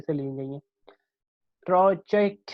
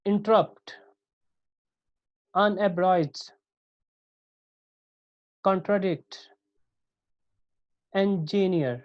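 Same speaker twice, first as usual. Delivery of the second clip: Interrupt, unabridged, contradict, engineer stressed on each last syllable; each word alone, weak-weak-strong, long pauses between; Interrupt, unabridged, contradict, engineer as isolated model words, final syllable stressed; anapaestic stress; 3 semitones higher, much slower than usual. Shown as a demonstration. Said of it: "two unstressed syllable followed by one stressed".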